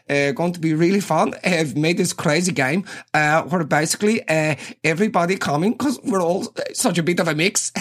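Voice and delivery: mock the overly keen party host with a touch of giggle; imitating the Swiss girl. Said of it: "she's like".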